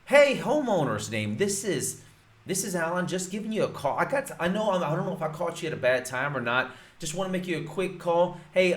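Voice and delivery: friendly upbeat caller pitch; enthusiastic cold call. Shown as a demonstration. Coach demos a cheery call to a homeowner, upbeat and friendly. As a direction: sound like a real neighbor, not a robot. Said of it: "what I want you to say is".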